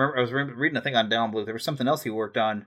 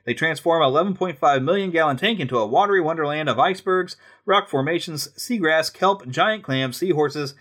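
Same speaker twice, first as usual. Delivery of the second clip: brochure read, lightly dramatic; reading aloud; 3 semitones higher than usual. Acted. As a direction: read it like guidebook copy. Reads aloud from a guidebook.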